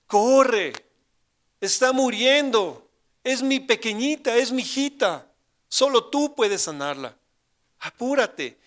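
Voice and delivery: grito agudo y fuerte, lento en "está muriendo"; súplica desesperada. Retold or imitated. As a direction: ruega con angustia que se dé prisa. Urgent imagined prayer. (padre con hija moribunda clama a Jesús, gritando)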